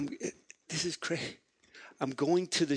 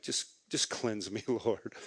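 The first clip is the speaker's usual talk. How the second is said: mock prayer; 6 semitones lower, 6 dB quieter than usual. Pastor with soap in hand praying half-joking, quiet and wry. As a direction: lower and softer wry plea. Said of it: "And I'm like".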